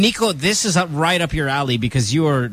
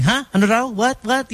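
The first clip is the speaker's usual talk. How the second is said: mock bafflement, pitched up; confused listener; 8 semitones higher than usual. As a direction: act like you can't make out the accent. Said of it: "because the accent's so thick".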